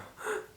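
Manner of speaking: quick soft intake of breath, copying the recording; imitated gasp. Copying the gasp on his ghost recording for viewers, a soft quick intake of breath. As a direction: mimic the gasp heard on the tape. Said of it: "you could hear it go".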